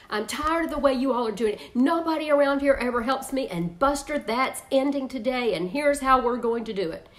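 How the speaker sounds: fast, fed-up complaint; exasperated nagging parent. Shown as a demonstration. Mother scolding kids about laundry, fast and fed up. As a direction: rattle off the grievances, fed up. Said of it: "here's how it can sound".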